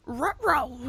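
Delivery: a light cartoon-dog "Ruh-roh" dropping at the end; lightly voiced goofy dog worry. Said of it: "pitch perfect Scooby-Doo".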